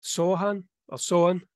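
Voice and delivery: "Sohan" drawn out as SO-an; regional pronunciation. Shown as a demonstration. Explaining to the cohost how England says it, demonstrated pronunciation. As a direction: slowly offer "Sohan" with a long o. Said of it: "I think in England it's".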